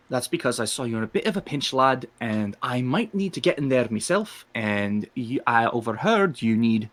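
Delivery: put-on lightly accented tabaxi sales pitch; persuading cat-person. Tabaxi offering to help the lad, persuasively. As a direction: talk the lad into a deal. Player voices tabaxi Torben.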